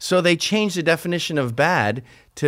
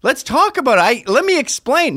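high, panicked pleading; scene: people led to the gallows begging to explain, mock panic; 10 semitones higher than usual. Beg in a hammed-up rush. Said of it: "are going".

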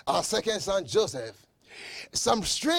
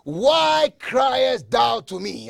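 slow, booming voice of God; 3 semitones higher, 4 dB louder, slower than usual. Acted. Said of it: "God responded and said to him".

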